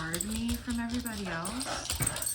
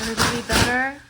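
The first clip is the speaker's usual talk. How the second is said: talking to a dog; 6 semitones higher, 9 dB louder, faster than usual. Real, not acted. Checking on dogs.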